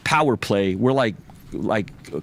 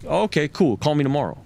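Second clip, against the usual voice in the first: casual retold brush-off, a little higher; offhand throwaway reply; 3 semitones higher than usual. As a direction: toss it off like it barely matters. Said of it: "Just, like, throwaway".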